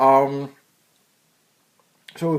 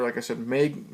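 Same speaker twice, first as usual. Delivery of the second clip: ordinary delivery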